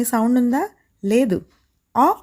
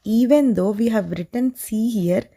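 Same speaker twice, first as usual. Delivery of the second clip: very slow English line; slow teaching; much slower than usual. Shown as a demonstration. Teacher slowly stressing the rule in English, very slow. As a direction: spell it out slowly. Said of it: "slow emphatic English".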